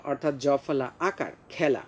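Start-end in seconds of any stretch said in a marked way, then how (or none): 1.5-1.8 খেলা as khyala, with ae; open-vowel pronunciation. Shown as a demonstration. Teacher corrects the spelling reading, open ae. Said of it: "আসলে উচ্চারণ হয় এর মতো".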